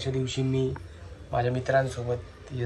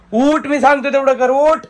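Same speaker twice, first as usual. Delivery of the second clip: higher, louder command to get up; insist, no more arguing; firm loud order; 10 semitones higher, 9 dB louder than usual. Real, not acted. Husband ordering reluctant wife up, loud firm command.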